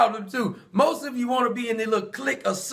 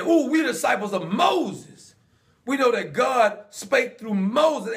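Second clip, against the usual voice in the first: smug boast; slower than usual. Acted. Pharisees boasting, drawn out.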